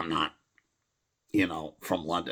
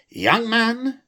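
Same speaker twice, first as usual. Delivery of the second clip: troll voice; 6 dB louder than usual. Pretend. Troll voice in poem.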